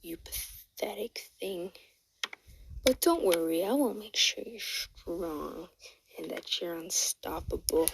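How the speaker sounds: sinister doctor murmuring to his captive; evil doctor. Retold or imitated. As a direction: whisper the threat like a mad scientist. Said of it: "the doctor just starts laughing".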